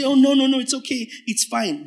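mock dismissive brother.

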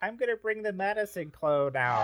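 high strange alien voice; alien Gargalax. Acted. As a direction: play the alien dad greeting. Alien dad introduces clone.

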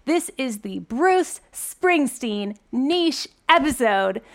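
slow, loud announcer build-up; monster truck ad. Pretend. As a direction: stretch it out like an arena announcer. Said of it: "monster truck voice right now".

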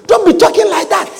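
Peter rebuking. Acted. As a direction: scold him like a friend who knows better. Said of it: "I was just playing Peter".

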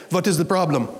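mock German accent, menacing stranger at the window. Big man confronting a shopper at the car window, German accent. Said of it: "says in a German accent".

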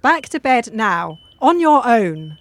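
stern order. Acted. Nurse orders patient to bed.

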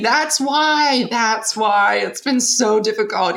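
hammed-up shock at the taxi driver; retold surprise. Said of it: "We were like".

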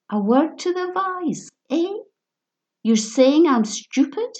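high, slurred, sneering echo; mocking drunk repeat. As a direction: parrot it back with drunken scorn. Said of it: "their voices were slurred".

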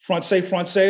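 français said the Acadian way; Acadian accent. Shown as a demonstration. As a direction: Acadian French pronunciation. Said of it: "as we say".

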